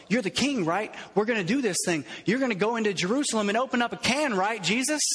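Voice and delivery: fast, eager, hopeful pitch; an eager follower urging his king to fight; eager disciple. Pretend. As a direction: egg him on like a fired-up follower. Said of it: "Imagine yourself".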